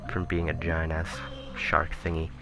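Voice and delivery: usual speaking voice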